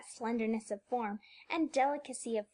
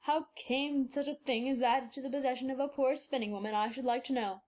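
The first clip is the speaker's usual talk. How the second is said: put-on a delighted old man wondering aloud; old doctor, delighted; 2 semitones lower than usual. A narrator's reading. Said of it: "cried the delighted old man".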